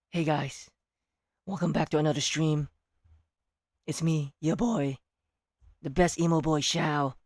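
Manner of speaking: a hint of Shao opening his stream. Streamer as Shao greeting viewers: subdued emo boy voice. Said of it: "I can still do Shao voice".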